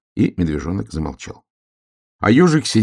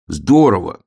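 ordinary delivery, nothing marked

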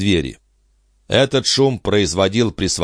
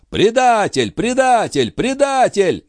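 high, drawn-out mob cry; a hundred voices calling traitor; crowd shouting; slower than usual. A narrator's reading. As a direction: yell it as the angry crowd. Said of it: "подхватила сотня голосов".

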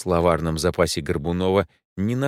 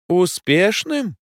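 much higher, slow incredulous echo; blurted outrage; 12 semitones higher, 5 dB louder, much slower than usual. A narrator's reading. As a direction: fire the word back in disbelief. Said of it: "выпалила Аврора". (возмущённо выпалила)

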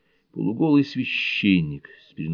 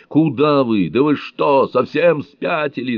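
higher, louder yell; 7 semitones higher, 6 dB louder, slower than usual. A narrator's reading. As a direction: yell at a madman to stop. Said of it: "заорал Рого". (крик, выше и громче)

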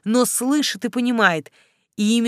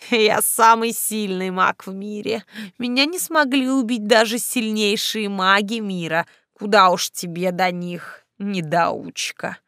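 boastful sneering necromancer. Acted. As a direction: belittle her from above. (надменный некромант с презрением)

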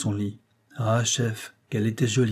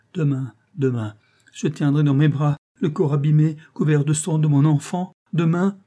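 a touch of a desperate mother; 4 semitones higher, 3 dB louder than usual. Acted. Mother begs for her child.

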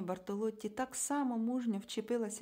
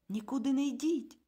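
louder, pleading call; urgent plea; 4 semitones higher, 5 dB louder than usual. A narrator's reading. Mrs Bartolotti urging the clients to stay, raised. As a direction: beg them to stay.

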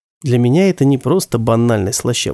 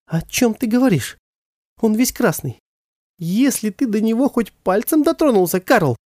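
high, sharp mother's voice; a mother warning her husband off; accusing mother; 10 semitones higher than usual. Acted. Mother to husband, high and accusing.

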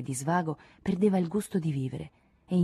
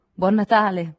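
loud, high, bright Christmas shout; joyful greeting; 5 semitones higher, 9 dB louder than usual. Acted. Anne arriving with roses, calling out loudly.

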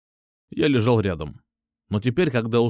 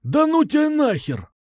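much higher, feeling outburst; heartfelt exclamation. A narrator's reading. Kukusha snaps at the old woman with feeling. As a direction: blurt it out with real feeling. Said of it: "с чувством воскликнул Кукуша".

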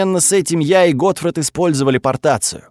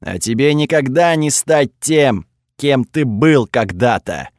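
helmeted god voice; slower than usual. Acted. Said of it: "ответил ему бог солнца".

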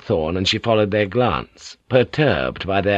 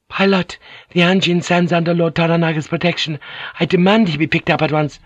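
higher-pitched, insistent woman's voice; indignant demand; 7 semitones higher than usual. A narrator's reading. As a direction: demand it firmly of the pilot. Mariko demands his rescue.

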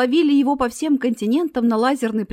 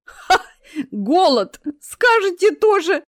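loud "ha", then high mocking exclamations; loud, dismissive derision; scoffing; 9 semitones higher, 6 dB louder, slower than usual. A narrator's reading. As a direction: scoff at the very idea. Woman scoffs at the threat.

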